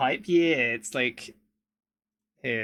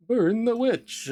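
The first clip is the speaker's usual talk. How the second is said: high, loud, slow mob cry; rally the mob to burn her; angry mob leader; 10 semitones higher, 7 dB louder, slower than usual. Pretend. Mock mob cry after witch joke.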